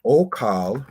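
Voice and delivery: Okal said clearly and carefully, opening on an O; Hebrew word demo. Shown as a demonstration. Teacher contrasts Okal with the root, said carefully. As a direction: spell out Okal as a teacher would. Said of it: "in verb means I will eat".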